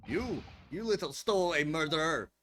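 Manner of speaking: loud, furious accusation; angry shout. Acted. Sailor yelling at the suspected stowaway, furious shout. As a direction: bellow at the stowaway.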